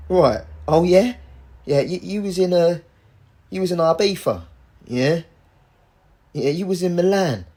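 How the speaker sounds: sceptical mock-Cockney questioning; Cockney accent. Taxman listing someone's holidays, mock Cockney accent. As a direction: put on a Cockney interrogator. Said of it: "that British Cockney accent".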